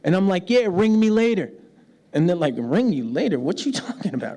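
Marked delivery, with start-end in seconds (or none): 0.5-1.5 breezy, matter-of-fact phone sign-off; casual sign-off. Acted. Preacher quotes himself talking to American friends, casual sign-off. 2.6-4.4 puzzled echo, questioning the odd phrase; mock incredulity. American friends react to his strange words, mock incredulity.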